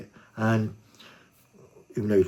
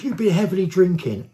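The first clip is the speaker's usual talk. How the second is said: retold shout; 7 semitones higher, 7 dB louder than usual. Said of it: "while she's shouting and screaming".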